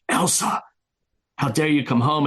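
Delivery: high-pitched, acted-out indignation; mock indignant scolding. Swan confronting Elsa at the gate, mock indignant. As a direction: imitate an affronted telling-off, pitched well up.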